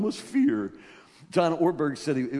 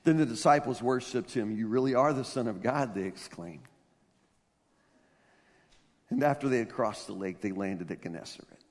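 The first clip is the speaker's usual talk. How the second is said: hushed, reverent reading; 7 semitones lower, 5 dB quieter than usual. Acted. Softly closing the scripture reading.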